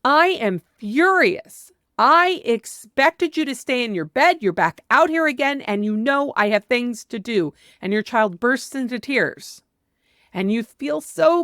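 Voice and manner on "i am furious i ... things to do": furious parent. Shown as a demonstration. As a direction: tell the child plainly you're furious. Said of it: "but saying".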